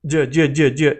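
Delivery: J, J said as in English; hard English J sound. Shown as a demonstration. Teacher showing the wrong English J. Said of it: "the letter J in Spanish is not".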